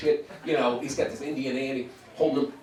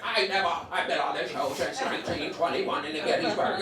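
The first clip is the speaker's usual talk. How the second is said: mock old-lady rant; 2 semitones higher than usual. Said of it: "she's going off".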